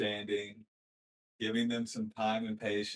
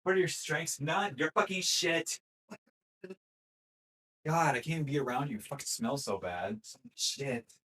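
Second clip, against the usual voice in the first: higher, louder mock insults; mock cruel coach; 5 semitones higher, 3 dB louder than usual. Mocking a brutal coach insulting a student.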